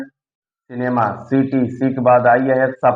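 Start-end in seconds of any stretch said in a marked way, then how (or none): 0.0-1.1 सिनेमा drawn out slowly, each syllable clear; slow teaching model of सिनेमा; slow demo word. Shown as a demonstration. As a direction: stretch सिनेमा out slowly for students. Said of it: "सी के बाद आई आया है".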